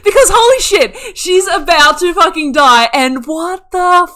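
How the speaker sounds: high, loud, incredulous outburst; astonished fan losing it; overwhelmed disbelief. Real, not acted. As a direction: blurt it out in stunned excitement. Reliving a shocking scene from the show.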